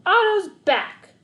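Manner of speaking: high, loud, slow cheer; cheering shout. A narrator's reading. Coach cheering that the boy is back, high and loud. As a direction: celebrate his return. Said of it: "he'd scream".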